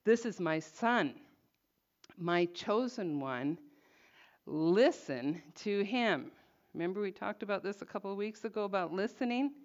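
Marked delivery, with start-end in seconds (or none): 0.0-6.3 slow, measured, solemn divine proclamation; voice of the Father. Acted. God the Father speaking from the cloud, slow and solemn. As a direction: lay each phrase down slowly like a voice from the cloud. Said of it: "it's the voice of the Father".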